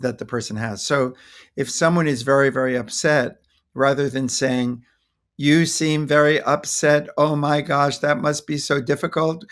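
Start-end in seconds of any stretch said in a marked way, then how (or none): 5.4-9.5 detached sympathy. Shown as a demonstration. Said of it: "the way I delivered it feels terrible".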